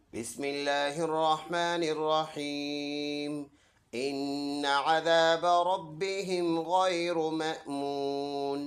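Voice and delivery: slow, melodic tilawat of the verse; Quran recitation. Acted. Teacher recites the verse for his viewers, slow melodic tilawat. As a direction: chant each word slowly and evenly.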